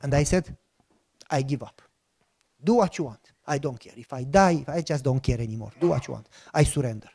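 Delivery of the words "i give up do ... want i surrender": broken surrender. Retold or imitated. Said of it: "So I started to cry".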